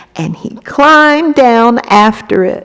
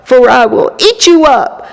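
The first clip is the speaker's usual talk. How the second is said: giant roaring; 4 semitones higher, 3 dB louder than usual. Acted. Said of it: "The angry giant jumped up and he roared".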